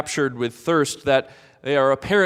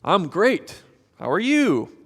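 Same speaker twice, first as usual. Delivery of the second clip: polite reply; 4 semitones higher than usual. Retold or imitated. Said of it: "the way we're supposed to answer".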